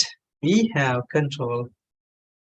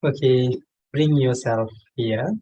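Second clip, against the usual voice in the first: measured meditation guide with long pauses; unhurried meditation leading in short, spaced phrases; guided meditation. Real, not acted. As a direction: guide them gently, phrase by phrase, pausing long between. Leads a meditation session.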